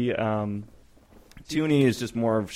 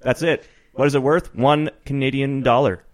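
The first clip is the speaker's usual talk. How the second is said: a touch of hammed-up radio host, louder; mock Canadian show host; 2 semitones higher, 5 dB louder than usual. Host greeting American listeners as jovial Canadian announcer. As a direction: play a hearty Canadian TV host, eh. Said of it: "define a loony and toonie for our American listeners".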